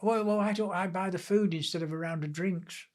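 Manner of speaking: lightly imitated tipsy suggestion; mildly slurred. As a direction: slur it just a touch, as if a few pints in. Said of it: "slurred out".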